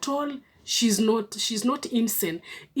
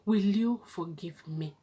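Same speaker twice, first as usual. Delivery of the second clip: demonstrated plea; 4 dB quieter than usual. Shown as a demonstration. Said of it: "use these words".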